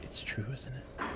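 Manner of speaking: soft, fading mild dismay; a hint of a voice close to tears; near tears. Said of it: "on the verge of tears".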